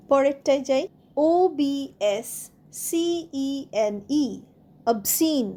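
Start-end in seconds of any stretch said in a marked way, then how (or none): 4.9-5.5 obscene ending in "seen", no K; silent C. Shown as a demonstration. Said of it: "সি উচ্চারণ হবে না".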